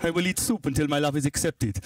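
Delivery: mock-romantic Italian accent. Italian man vows his love, in Italian accent. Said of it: "An Italian man".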